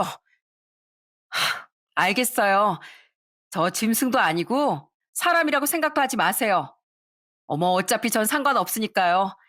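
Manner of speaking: scoffing sigh, then cold demand; sneering daughter-in-law. Acted. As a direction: brush her off with contempt. (비웃으며 명령하는 며느리)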